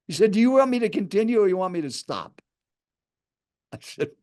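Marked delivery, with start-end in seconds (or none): 0.3-2.4 brisk, higher-pitched retold challenge; mildly aggressive, quick quoted question. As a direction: imitate a pushy stranger demanding a choice. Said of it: "kind of an aggressive tone".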